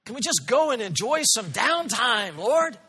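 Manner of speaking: tired disciple. Retold or imitated. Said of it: "must have once in a while said".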